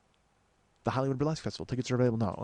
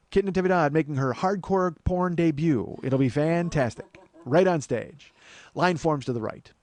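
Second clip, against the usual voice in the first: hyped-up, higher mock announcer; mock promoter pitch; 4 semitones higher, 3 dB louder than usual. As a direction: pitch it like a show barker. Mock promotion of a stage show.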